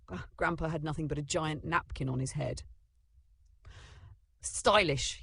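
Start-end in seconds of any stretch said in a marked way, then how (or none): 4.4-5.2 punchy, barked single word, higher; proud bark voice. A narrator's reading. Grandpa in the dog's voice, proudly barking. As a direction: bark it out with pride. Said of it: "said proudly in Copper's bark voice".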